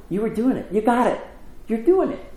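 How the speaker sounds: high-pitched parental cheering; lifted, eager reassurance. Retold or imitated. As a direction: encourage like a parent beside a bike. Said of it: "which is a little softer".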